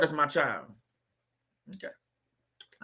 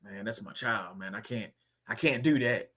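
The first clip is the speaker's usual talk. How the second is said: mimicking a parent; 9 semitones lower than usual. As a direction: mumble it low like a doting parent. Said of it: "a lot of people gonna say".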